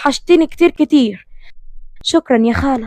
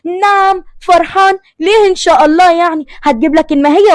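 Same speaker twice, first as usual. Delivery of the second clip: jealous shock; 6 semitones higher than usual. A narrator's reading. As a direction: stretch it out, stung with jealousy. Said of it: "حياة بصدمة وغيرة".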